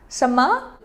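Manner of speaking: 什么 said high and loud, rising sharply. Shown as a demonstration. Teacher demonstrates asking what, pitched high and loud. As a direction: throw 什么 up high like a startled what. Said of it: "it's better for you to raise your tone".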